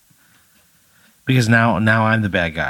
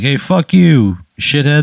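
acted heckle yell; 5 semitones higher, 4 dB louder, slower than usual. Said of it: "she yells".

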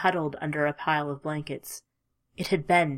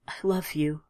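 tender whisper. Acted. Farewell to fading lover.

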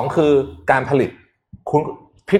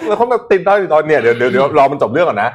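หัวเราะไปพูดไป; 3 semitones higher, 4 dB louder than usual. Real, not acted. Laughing about stuck investors.

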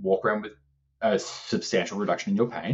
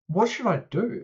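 mimicking the mum, pitched much higher and a little quicker; high mock mum voice; 12 semitones higher than usual. Retelling the client's mum to a friend, high mock voice. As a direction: play the surprised mum in a squeaky imitation.

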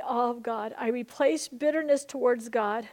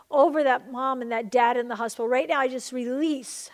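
louder, insistent intercession; fervent preaching prayer; 4 dB louder than usual. Acted. Pastor interceding for the sick baby, loud fervent prayer. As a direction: pray it out loud with full force.

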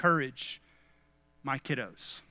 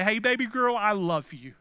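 tender message to daughter; 3 semitones higher than usual. Pretend. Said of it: "as I say".

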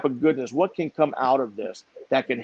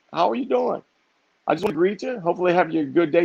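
bright friendly greeting; 4 semitones higher, faster than usual. Retold or imitated. Cheerily repeating greeting to clerk.

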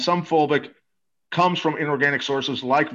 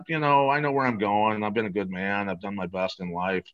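resigned; 3 semitones lower than usual. Retold or imitated. Dying friend accepting his fate, retold.

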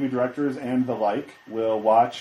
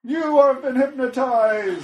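hypnotist voice; 12 semitones higher, 6 dB louder, slower than usual. Retold or imitated. Mock hypnotist proclamation.

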